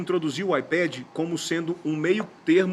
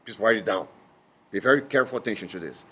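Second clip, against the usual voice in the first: low, emphatic English-teacher impression; deep-pitched, insistent instructor voice; Miles; 6 semitones lower than usual. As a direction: imitate a teacher drilling a key point. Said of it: "Lembrei do Miles".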